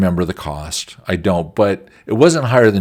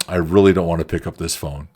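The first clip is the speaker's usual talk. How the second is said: reluctant dread; 3 semitones lower than usual. Retold or imitated. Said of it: "I'm looking at the phone like".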